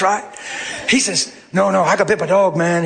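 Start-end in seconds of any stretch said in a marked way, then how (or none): 1.5-2.8 a touch quicker, urgent Southern insistence; talking fast. Retold or imitated. Maintenance man insisting on the hospital, fast Southern talk. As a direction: rush it like he's eager to help. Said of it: "He's talking fast".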